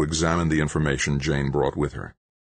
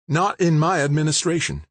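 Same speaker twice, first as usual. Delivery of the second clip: coldly; 11 semitones higher than usual. Acted. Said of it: "she said coldly".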